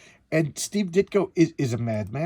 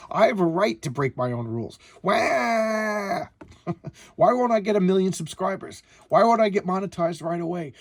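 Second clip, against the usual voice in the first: mock whiny complaint; 4 semitones higher than usual. Mocking progressives as whiny.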